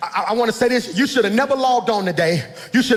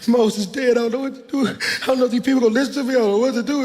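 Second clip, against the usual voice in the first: Joshua voiced; faster than usual. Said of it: "It's like".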